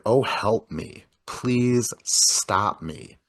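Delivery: mock pleading, slowly drawn out; retold shuddering plea. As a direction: imitate a shuddering caller, slow and halting. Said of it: "He's, like, shuddering".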